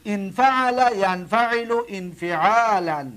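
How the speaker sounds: ان فعل ینفعل انفعالا read slowly, each form separated; slow recitation. Shown as a demonstration. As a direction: drill the paradigm slowly for students. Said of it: "دقت بتید". (شمرده و آهسته)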